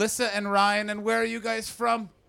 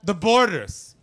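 disdain; 5 dB louder, slower than usual. Retold or imitated. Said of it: "say it with such disdain".

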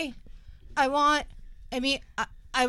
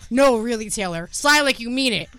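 mock scolding; faster than usual. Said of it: "the part where it said".

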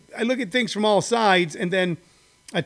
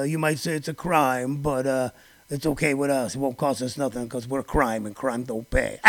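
imitating Rudy Giuliani; 3 semitones lower than usual. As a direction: mumble like a shady lawyer hedging. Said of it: "Rudy Giuliani going".

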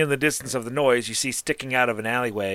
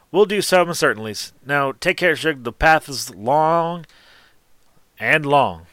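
a touch louder, friendly trader's send-off; lightly voiced shopkeeper; 4 semitones higher, 5 dB louder than usual. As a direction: lightly play a shopkeeper seeing off a customer. Game master voices the shopkeeper.

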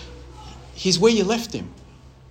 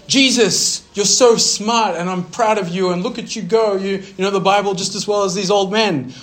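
a proud mother, pitched higher and louder; gushing proud mother; 6 semitones higher, 6 dB louder than usual. Pretend. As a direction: lightly play a doting mom beaming at her son. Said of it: "his mother said to him".

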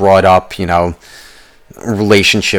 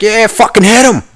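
high, excited sideline yell; cheering; 13 semitones higher, 4 dB louder than usual. Acted. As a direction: cheer them on like a rowdy fan. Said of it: "Fucking cheering".

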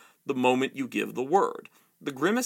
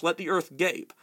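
raging prince. Acted. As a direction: spit the threat out.

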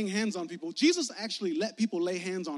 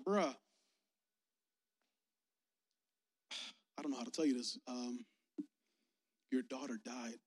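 softer, sighing, gentle delivery of bad news; somber bad news; 5 semitones lower, 7 dB quieter than usual. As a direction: break the news softly, with a sigh. Messengers tell of daughter's death.

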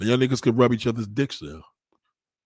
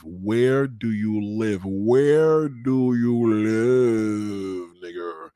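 every word of the question stretched long; exasperated, very slow repeat; slow, drawn-out question; much slower than usual. Real, not acted. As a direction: draw out each word in exasperation. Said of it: "Let me say it a slower".

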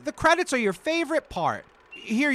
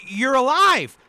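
excited; 4 semitones higher, 5 dB louder than usual. Acted. Friend returns unexpectedly.

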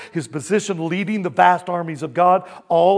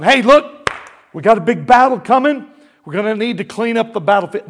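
loud, higher-pitched casual call; imitating an angel calling; 4 semitones higher, 6 dB louder than usual. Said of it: "the angel is calling scavenger birds".

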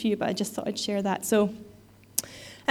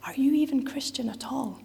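whispered rebuke; 3 semitones higher than usual. Retold or imitated. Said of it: "essentially saying to them".

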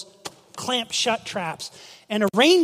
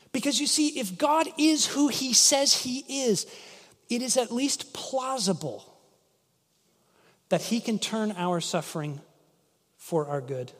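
a quiet, sincere confession; soft and earnest; 5 dB quieter than usual. Real, not acted. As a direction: lean in and say it softly, sincerely. Preacher drops to earnest point.

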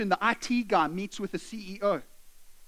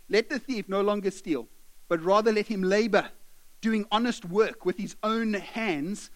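slow, deliberate reading of the verse; scripture reading; slower than usual. Acted. Preacher reads the verse to his congregation, slow and deliberate. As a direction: read the verse slowly, weighing each phrase.

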